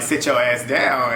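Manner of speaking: put-on slow, lightly accented repeat of Gabo; imitating Gabo's accent. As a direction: draw out "Sit your ass down" in a hint of Gabo's accent. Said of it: "his accent was funny 'cause the way he said it".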